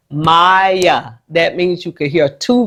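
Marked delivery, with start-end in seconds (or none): 0.1-1.2 "Maya" slowly drawn out as MY-uh; two syllables. Shown as a demonstration. Teacher explaining vowel sounds to Maya, two-syllable "Maya". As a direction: let both syllables of "Maya" be heard. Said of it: "your name has two syllables".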